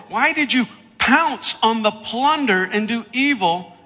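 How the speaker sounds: impassioned acted scolding; stern rebuke. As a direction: confront the king forcefully, hitting key words. Acts Samuel rebuking King Saul.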